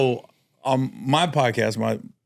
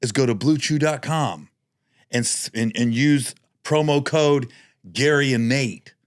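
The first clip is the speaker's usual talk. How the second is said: ad read. Pretend. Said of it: "Let's do a mock one".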